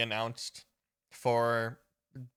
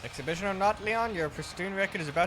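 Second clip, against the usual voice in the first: challenging rival voice; 4 semitones higher than usual. Acted. Reads rival and Leon dialogue.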